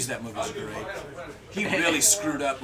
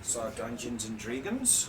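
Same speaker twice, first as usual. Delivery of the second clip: slow New Zealand accent, "Dragons" as "driggons"; "Dungeons and Dragons" with New Zealand vowels; 5 dB quieter, slower than usual. Shown as a demonstration. S0 shows his learned Kiwi accent, slowly in New Zealand accent. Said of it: "A little bit of New Zealand".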